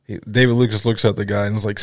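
ordinary talk, nothing marked

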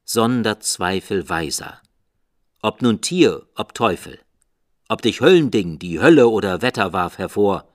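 loud fast outburst; loud rushing cry. A narrator's reading. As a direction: hurl the words at the bird. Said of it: "rief ich".

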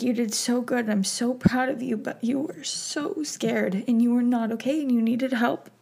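tearful tender reassurance. Retold or imitated. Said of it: "She's like".

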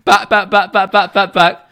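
high, loud hurried backpedalling; mock polite backtrack. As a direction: retreat fast into politeness. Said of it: "And I'm like".

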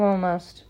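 "almost" given emphasis; stress on almost. A narrator's reading. Hermione describing her date to Parvati, "almost" emphasized. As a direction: lean on the word "almost". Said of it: "put a great deal of emphasis on the word".

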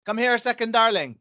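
calling out. Real, not acted. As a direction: call your wife over sweetly.

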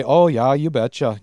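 put-on light Norwegian-Minnesotan accent; grandma's Minnesota accent. Imitating her Norwegian grandma, mild Minnesota accent. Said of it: "my grandma does".

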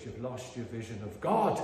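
Irish preacher in full flow; Irish brogue. Retold or imitated. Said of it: "in that lovely Irish brogue".

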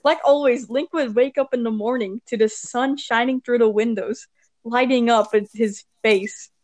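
measured read-aloud narration; story reading. Acted. Reads fan fiction aloud.

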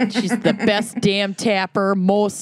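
put-on quoting the movie in Minnesotan accent. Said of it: "unleash their worst slash best Minnesotan accents".

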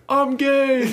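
high, loud goofy werewolf. Pretend. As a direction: announce it like a proud werewolf. Voicing werewolves.

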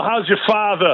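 loud, high mock-British delivery; put-on British accent. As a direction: relish it in a playful British accent. Quotes an English comic catchphrase.

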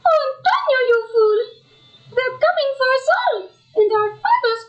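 crying melodramatic outburst; tearful. Acted. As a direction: sob out the reproach. Gang arrives, sister despairs.

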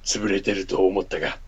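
lightly gruff barfly; a hint of a gruff regular. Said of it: "かっこ渋い声で". (渋い声で)

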